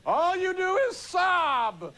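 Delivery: slow, high, laughing repeat; laughing echo. Retold or imitated. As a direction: echo the line through laughter. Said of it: "I've been in that play".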